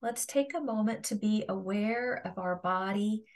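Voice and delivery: calm meditation guide with long pauses; guided meditation. Acted. Yoga teacher guiding listeners to feel their resting body, guided meditation. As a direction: guide them through a body scan, leaving space between phrases.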